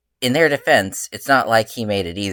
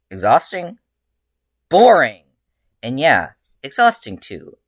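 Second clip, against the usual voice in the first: exclaimed; 4 dB louder than usual. Acted. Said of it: "Izuku exclaimed".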